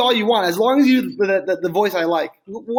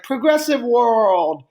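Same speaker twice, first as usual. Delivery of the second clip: announcer voice; much slower than usual. Retold or imitated. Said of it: "It's like".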